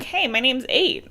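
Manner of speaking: mock audiobook character voice, slow; Eight. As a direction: lightly imitate a slow-talking American boy. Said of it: "talks closer to Sam than anything".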